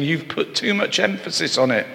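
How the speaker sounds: a rising, accusing prophet's charge; Stephen's rebuke. Acted. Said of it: "but saying".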